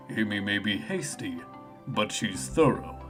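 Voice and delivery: low, soft, measured aside; composed ninja detective. Acted. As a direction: drop low and quiet, unruffled. Voices Espio's calm comment.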